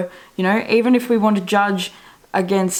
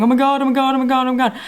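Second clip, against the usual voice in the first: higher, run-on imitation of freaking out; mock panic; 4 semitones higher, much faster than usual. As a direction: imitate a crowd panicking, words tumbling in a loop. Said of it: "everyone starts freaking out and going".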